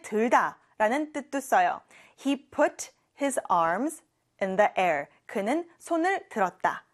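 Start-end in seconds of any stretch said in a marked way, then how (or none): 2.2-5.1 "I put my bag down" said word by word; very slow model. Shown as a demonstration. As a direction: model the sentence slowly for repeating. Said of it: "같이 해볼게요". (따라 하도록 아주 천천히)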